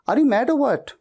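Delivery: mock exasperation at a friend; playful are-you-crazy tone; exasperated teasing. Shown as a demonstration. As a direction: chide a friend, half teasing. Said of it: "हमेशा ऐसा कहना है".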